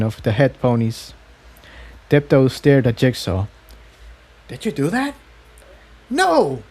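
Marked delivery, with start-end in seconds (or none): 4.5-5.1 astonished. A narrator's reading. Tiptoe astonished. 6.1-6.6 high, startled no; stunned. A narrator's reading. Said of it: "Jigsaw said, stunned".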